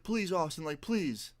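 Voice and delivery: mild mock begging. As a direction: beg lightly, imitating a desperate friend. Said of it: "he's begging me".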